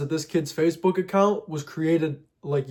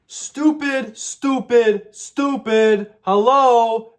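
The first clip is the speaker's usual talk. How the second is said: a much higher, exasperated stupid repeated; self-scolding; 6 semitones higher, 5 dB louder, much slower than usual. Real, not acted. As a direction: berate yourself for falling for it. Scolding himself for the choice.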